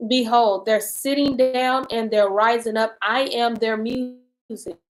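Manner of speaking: measured, deliberate Bible reading; scripture reading. Acted. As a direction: read the prayer aloud with weighted pauses. Reads scripture aloud.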